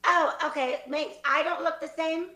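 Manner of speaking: badly faked Australian accent. Graduate questioning a classmate, in an Australian accent. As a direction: question it as a mock Aussie. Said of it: "let's say they're all Australian".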